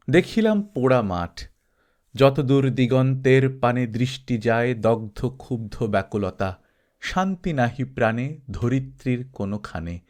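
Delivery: measured, solemn poem reading; poem recitation. Acted. Narrator reciting his heat-struck poem, in a solemn recital voice. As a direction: read the verse out like a sad recital.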